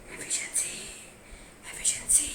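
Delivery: एफिशिएंसी whispered softly. Shown as a demonstration. Teacher whispering the word for students to repeat.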